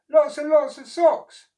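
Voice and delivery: high, loud delighted squeal; excited. Acted. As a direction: marvel at the heap of socks. Oscar thrilled by socks.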